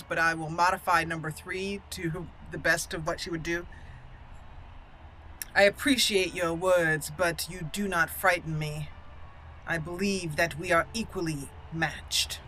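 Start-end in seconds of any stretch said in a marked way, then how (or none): 5.5-12.4 measured formal reply, slow at first; lightly acted, unafraid noblewoman; composed noble warrior. Noblewoman answering an opponent's threat, composed. Voices her character's chosen reply.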